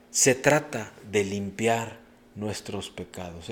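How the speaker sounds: "Se trata de limpiar nuestros pecados" drawn out slowly word by word; slow emphatic repeat. Shown as a demonstration. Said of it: "repeated for emphasis".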